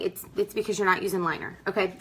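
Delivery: quick, blunt mock retort; mildly sassy, fast correction to a customer. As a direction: hurry out a tactless answer. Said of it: "don't say it like that. That's my red coming out".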